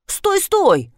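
quick, high-pitched "стой, стой"; hurried stop, stop; rattled off. Acted. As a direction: blurt it out in a rush, pitch up. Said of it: "затараторил наш гость".

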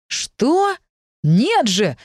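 high startled protest; he exclaims, as if caught off guard; seemingly surprised exclamation. A narrator's reading. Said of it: "будто бы удивлённо воскликнул".

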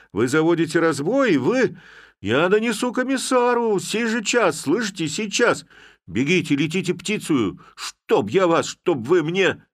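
very high, loud screamed threats; screaming fury. Acted. Village head threatening his constables, a very high screaming fury. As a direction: lose all control, sputtering threats. Head's rage peaks.

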